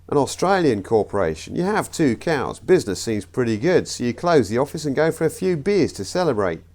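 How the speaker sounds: comic put-on Australian accent. Comedian telling the Australian corporation joke, Australian accent. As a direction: try a rough Aussie accent. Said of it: "I know the accents were awful".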